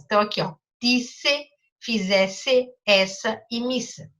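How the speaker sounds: words read out one by one for syllables; teacher reading example words aloud. Shown as a demonstration. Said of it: "todas as palavras que têm dois S".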